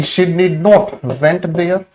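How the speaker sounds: very slow, word by word; slow dictation. Shown as a demonstration. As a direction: read the wrong sentence out slowly. Dictating the wrong example sentence.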